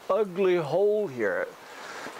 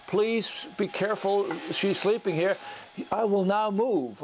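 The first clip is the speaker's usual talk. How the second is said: a fairy tale tree, voiced a little higher; gentle tree voice; 5 semitones higher than usual. Storyteller voicing the tree for the sleeping girl, gently raised. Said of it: "and the tree says".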